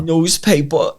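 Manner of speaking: "Newspaper" with a New York dropped final r; New York accent. Retold or imitated. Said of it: "Diana just looks at me and goes".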